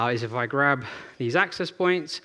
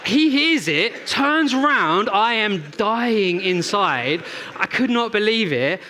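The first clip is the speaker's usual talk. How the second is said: laughing while telling; 6 semitones higher, 4 dB louder, much slower than usual. Real, not acted. Embarrassing moment, laughing while telling.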